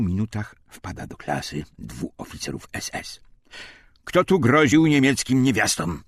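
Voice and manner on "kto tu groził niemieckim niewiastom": loud, high demanding yell; shouting interrogator. A narrator's reading. SS officer storming into the classroom, shouting. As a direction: bark the accusation at the room.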